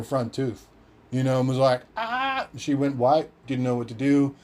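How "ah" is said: 1 shocked gasp. Retold or imitated. Mum gasps seeing tooth.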